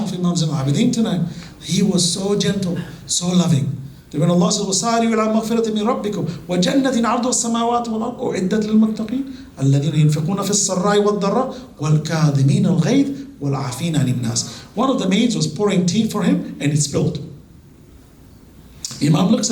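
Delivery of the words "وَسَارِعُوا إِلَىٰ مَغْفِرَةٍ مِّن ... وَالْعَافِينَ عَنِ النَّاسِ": very fast memorised Quran run; rapid recitation. Acted. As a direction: rattle off the verse in one breath.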